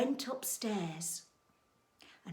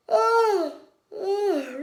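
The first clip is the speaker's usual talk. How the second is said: loud, high drawn-out oh; hammed-up sigh of exhaustion; weary groan; 12 semitones higher, 12 dB louder than usual. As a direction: groan with exaggerated tiredness. Goldilocks tired before bed.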